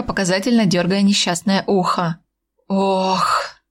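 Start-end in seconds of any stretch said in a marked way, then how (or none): 2.7-3.6 breathy sigh. A narrator's reading. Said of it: "согласно выдохнул посол".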